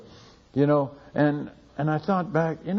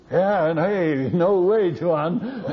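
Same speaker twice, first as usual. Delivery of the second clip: excited villagers; 5 semitones higher, 5 dB louder, much slower than usual. Retold or imitated. Villagers reacting with delight.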